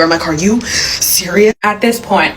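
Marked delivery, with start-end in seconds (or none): 0.3-1.5 slow, drawn-out fuming question, held in; seething disbelief. Retold or imitated. Fuming client answers the braider's fee message, slow contained anger. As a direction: seethe it slowly, without raising the volume. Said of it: "fuming and shaking out of anger".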